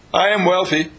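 firm affirmation; stress on am. Shown as a demonstration. Preacher modelling an affirmation, stress on am. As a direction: lean on am in I am wealthy. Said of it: "affirmation with stress on am".

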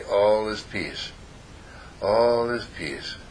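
slow, soft, drawn-out mantra; slow calm affirmation. Shown as a demonstration. After breathing out, saying slowly to himself, calm mantra. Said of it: "and I say".

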